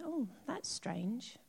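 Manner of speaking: quiet remark. Retold or imitated. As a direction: say it softly and slowly, half to himself. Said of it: "he just said quietly".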